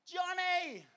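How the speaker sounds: high, far-carrying mock yell; worried calling out. Shepherd searching for his lost sheep in a storm, worried yell. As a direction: holler the name into the distance. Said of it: "he's yelling out".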